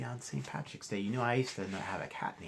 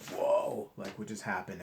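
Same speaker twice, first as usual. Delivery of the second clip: startled whoa. Retold or imitated. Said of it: "we're like".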